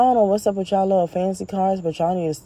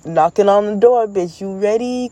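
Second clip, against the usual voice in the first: playful brash call; 4 semitones higher, 4 dB louder than usual. Pretend. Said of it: "My sexual energy be like".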